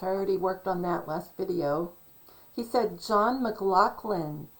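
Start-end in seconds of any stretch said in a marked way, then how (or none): 3.0-4.5 "McLaughlin" said the Scottish way, with "lock" in the middle; Scottish pronunciation. Retold or imitated. Talker repeating how he said it, "McLaughlin" the Scottish way. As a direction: slowly say "McLaughlin" as Mc-LOCK-lin, Scottish style. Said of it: "he said it the Scottish way".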